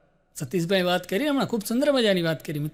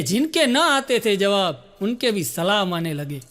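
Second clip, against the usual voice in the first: drawn-out shayari line, very slow; slow recited poem; slower than usual. Acted. Poet's couplet read out slowly to the audience. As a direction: stretch જિનકે ન આતે થે જવાબ slowly like a mushaira.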